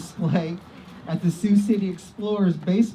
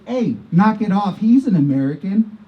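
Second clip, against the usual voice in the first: loud, imagined telling-off; firm rebuke; 7 dB louder than usual. Acted. Man in front telling those guys off, firm acted rebuke. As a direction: call them out forcefully.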